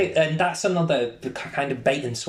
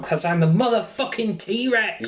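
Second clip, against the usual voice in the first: T-Rex voice; 7 semitones higher than usual. Retold or imitated. Voicing the T-Rex.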